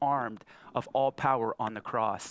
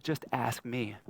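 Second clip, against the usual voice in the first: gentle dad; 3 semitones lower, 4 dB quieter, slower than usual. Retold or imitated. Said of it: "I said".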